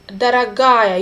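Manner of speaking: Дорогая with the ending stressed, falling; stressed ending shown. Shown as a demonstration. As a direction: lean on the га in Дорогая. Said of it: "you can see it's stressed".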